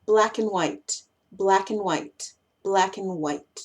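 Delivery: "black and white" as "black'n white"; connected. Shown as a demonstration. Teacher connecting the words, "black'n white". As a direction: shrink "and" to n between "black" and "white". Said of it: "cuando los conectamos".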